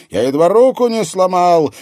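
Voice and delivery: loud, high pained shout. A narrator's reading. Man shouting to a comrade after hurting his hand. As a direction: yell out in shock and pain.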